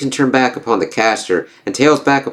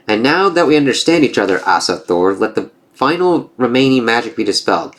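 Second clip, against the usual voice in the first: lightly voiced gods trading taunts; storybook reading of a Norse comic; comic dialogue read-aloud; 3 semitones higher than usual. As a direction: read the panels with a hint of character.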